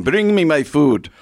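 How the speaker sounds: slow, lightly voiced royal command; playing a king. Guest jokes about food delivery, mock-regal and slow. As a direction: order it slowly, like a mock king. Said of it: "Feel like a king".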